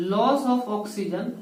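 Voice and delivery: loss of oxygen stretched slowly, word by word; teacher repeating loss of oxygen slowly for notes; slow emphatic repeat. Shown as a demonstration.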